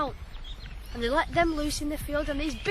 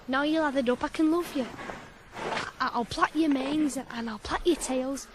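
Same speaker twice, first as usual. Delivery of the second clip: tender to horses; 3 semitones lower than usual. Acted.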